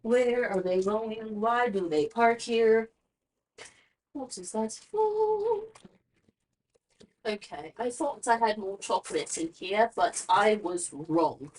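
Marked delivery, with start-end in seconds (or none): 0.0-5.6 nosy. Retold or imitated. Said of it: "I be way too nosy and way too invested".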